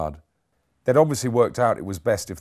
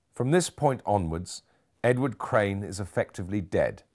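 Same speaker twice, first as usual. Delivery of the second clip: a hint of a cut-glass upper-class English accent, unhurried start; patrician impression. Nurse mimicking Henderson's posh speech, light cut-glass English accent. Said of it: "assuming a patrician tone".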